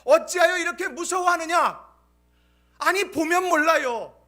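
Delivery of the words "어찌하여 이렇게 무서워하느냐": louder, stressing 어찌하여; reproachful question. Acted. Pastor repeating Jesus's first rebuke, pressing and reproachful. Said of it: "두 가지더라는 거예요".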